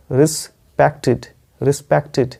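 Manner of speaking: "रिस्पेक्टेड" ending in short "टिड"; ending said as -tid. Shown as a demonstration. Teacher modelling the word for learners, "रिस्पेक्टेड" ending in -tid. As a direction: say "रिस्पेक्टेड" with the last vowel as short i. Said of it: "इसका उच्चारण होगा last में".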